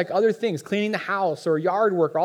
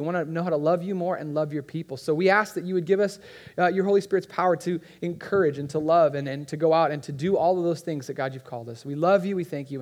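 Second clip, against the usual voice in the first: earnest prayer voice. Acted.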